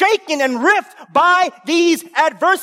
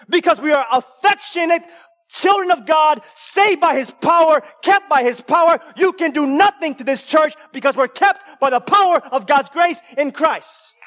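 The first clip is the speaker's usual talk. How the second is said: fervent preaching; 3 semitones higher than usual. Acted. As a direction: declare it against the devil.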